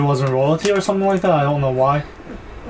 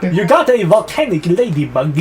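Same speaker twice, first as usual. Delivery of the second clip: funny character voice; 4 semitones higher than usual. Pretend. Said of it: "The voice".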